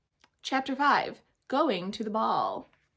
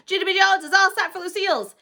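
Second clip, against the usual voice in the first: joyful announcing; 11 semitones higher, 12 dB louder than usual. Acted. Child announcing herself joyfully.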